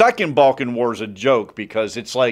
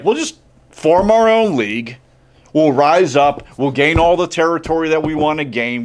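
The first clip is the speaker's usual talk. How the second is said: defiant rallying; 4 semitones higher, 4 dB louder than usual. Retold or imitated. Balkan states declaring independence.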